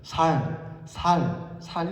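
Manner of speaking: Gyeongsang speaker who can't say 쌀, saying 살; Gyeongsang accent. Shown as a demonstration. Preacher demonstrates how a Gyeongsang speaker says 쌀, Gyeongsang accent. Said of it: "쌀이라는 발음이 안 돼요... 살 이렇게 되거든요".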